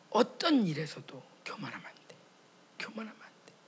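whispered self-warning; inner warning whisper. Retold or imitated. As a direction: hiss the rule to yourself under the breath.

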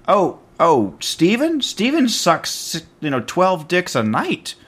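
high, drawn-out taunting voice; sing-song tattling accuser; mocking gossip voice.

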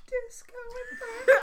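laughing shout. Pretend.

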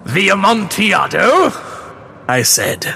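high, quavering voice of a broken man; Fortunato's sad voice. A narrator's reading. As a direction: laugh it off, pretending it's a joke. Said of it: "It was succeeded by a sad voice".

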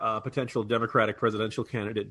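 ordinary talk

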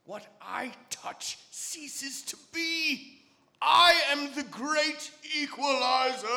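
booming grim reaper proclamation; solemn godlike death voice; vast deep cosmic voice. Acted. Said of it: "I bet you do a mean Shatner impersonation".

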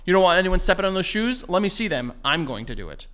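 mild mock-taunting teacher; lightly voiced bully daring him. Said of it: "he was, like, a shit starter".

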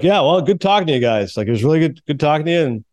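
lightly drawn-out, deliberate sign-off; unhurried imitation of a laid-back hockey player's speech; Chris Chelios. Posing as the player to two fans, drawn out and deliberate. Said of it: "that's how Chelios talks. Kinda drawn out".

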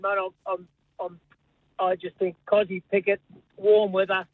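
ordinary talk, nothing marked

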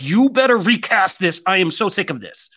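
mock fed-up demand. Imagined Potter actors confronting the studio, mock fed-up. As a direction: play an actor theatrically demanding out. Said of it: "and they were like".

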